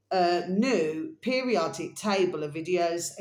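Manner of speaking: slowed, deliberate dictation; slow repeat. Shown as a demonstration. Host repeating the channel name slowly for viewers. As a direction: say it again slowly for them. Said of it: "I'm just gonna repeat this again for you".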